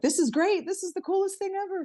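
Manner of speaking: put-on the thrilled kid raving about the device; imitating her young daughter. Daughter voiced in a retold story.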